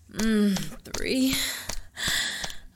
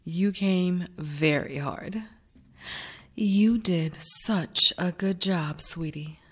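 soft praise; 7 semitones lower, 4 dB quieter, slower than usual. Acted.

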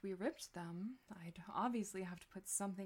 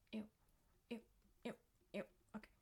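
ordinary talk, nothing marked

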